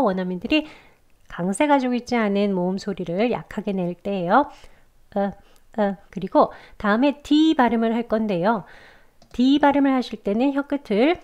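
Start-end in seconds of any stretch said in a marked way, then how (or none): 5.1-6.0 short, weak schwa "어". Shown as a demonstration. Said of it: "아주 약하게 짧게 어라고 소리 내면서요".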